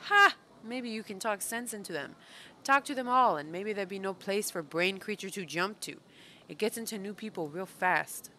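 a hint of a pit dweller urging action; lightly voiced pit creature. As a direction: lightly act out a blunt, uneducated creature. Reads game character's dialogue aloud.

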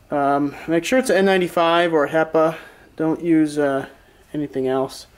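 muffled behind a respirator mask. Real, not acted. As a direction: speak through a face mask. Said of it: "If I sound a little muffled".

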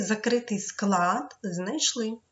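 закритий slowed and stressed. Shown as a demonstration. Teacher stressing the rule for pupils, slow. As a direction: lean on закритий. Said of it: "teacher stressing rule".

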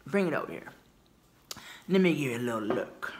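lightly voiced interested shopper; a hint of a polite customer; mild curious customer. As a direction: act a touch curious and fair. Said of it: "at least give me that".

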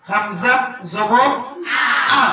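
slow, spell out হামজা, জবর, আ part by part; broken-up spelling. Shown as a demonstration. Teacher models spelling for pupils to repeat, broken up slowly. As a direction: separate হামজা and জবর, then sound আ. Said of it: "ভেঙে ভেঙে উচ্চারণ করে".

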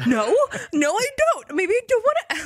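high, flustered backpedaling; squeaky high panicked denial; flustered protest. Retold or imitated. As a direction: caught out and squirming. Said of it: "And I'm like".

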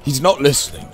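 calling out. Acted. Calling out to Edmonds.

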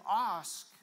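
loud, commanding "Ask"; no whispering. Shown as a demonstration. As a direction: punch the word out with authority. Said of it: "Don't whisper".

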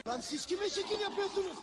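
threatening yell. Acted. Tough guy threatening.

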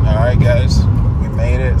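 talking while bouncing in the car; on a bumpy road. Real, not acted. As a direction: voice jolted by a bumpy ride. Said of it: "Sorry, it's so bumpy".

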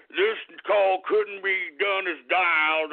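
grind it out like a broken automated line; Big Smoke robot voice. Retold or imitated. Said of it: "sounded like Big Smoke or something".

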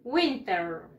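WINTER drawn out, falling at the end; model pronunciation. Shown as a demonstration. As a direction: say "Winter" slowly for pupils to copy. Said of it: "Repeat after me". (pronunciación modelo, alargada)

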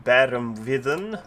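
fake German. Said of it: "Of course, that's not German".

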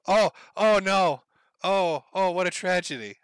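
loud, hammed-up "oh no"; mock dismay. Streamer bemoans a pulled-out cord to viewers, mock dismay. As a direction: wail in mock horror at a mishap.

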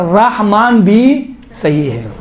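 slow, measured रहमान भी सही है; slow recitation. Shown as a demonstration. Teacher showing students the accepted reading, slowly. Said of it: "लिहाजा रहमान भी सही है".

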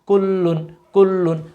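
teacher's recitation, letter by letter; slow spelling drill. Shown as a demonstration. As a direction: spell each letter slowly, then say the word thrice. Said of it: "আপনি আমাদের সাথে উচ্চারণ করুন". (ধীরে বানান করে তিনবার উচ্চারণ)

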